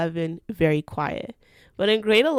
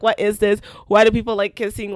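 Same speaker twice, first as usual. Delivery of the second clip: louder, fast and baffled; hammed-up disgust at the kiss; mock outraged disbelief; 6 dB louder, faster than usual. Quoting her own shocked thoughts.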